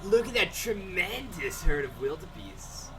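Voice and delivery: slow, put-on guide narration; lightly performed safari guide reading; game guide read-aloud. Player reading the guide's lines aloud, put-on narration.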